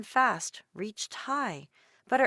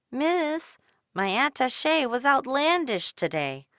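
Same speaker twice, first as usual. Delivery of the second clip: higher, polite plea; pleading girl; 6 semitones higher, 5 dB louder than usual. A narrator's reading. Dolores asking a woman for help, higher. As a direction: try the big word hopefully. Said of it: "turned to a woman".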